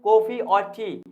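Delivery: slow, with "coffee" and "टी" each leaned on; stress on both options. Shown as a demonstration. Teacher showing which options get stress, "coffee" and "टी" emphasized. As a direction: mark "coffee" and "टी" as the key choices. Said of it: "coffee और टी पर ज्यादा क्या किया गया है".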